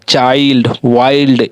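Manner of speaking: चाइल्ड, वाइल्ड with long "ai"; teacher's separate, careful वाइल्ड; pronunciation demo. Shown as a demonstration. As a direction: stretch the "eye" before ld in चाइल्ड. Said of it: "इस प्रकार से इसका उच्चारण हो रहा है".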